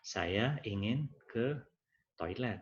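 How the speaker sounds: lambat dan jelas, contoh kalimat baku; ucapan baku. Shown as a demonstration. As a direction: ucapkan dengan baku, pelan-pelan. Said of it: "Yang benar". (guru mencontohkan kalimat baku yang benar)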